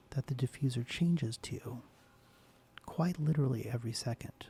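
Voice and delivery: soft ASMR whisper; soft spoken voice. Real, not acted. ASMR host welcoming her viewers, soft whisper. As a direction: hush it gently, close to the mic. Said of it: "to do this in a soft spoken voice".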